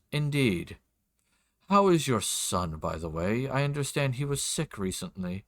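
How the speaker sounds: a hint of a measured nobleman; lord's voice. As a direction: make polite, probing small talk. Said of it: "do my best for his voice".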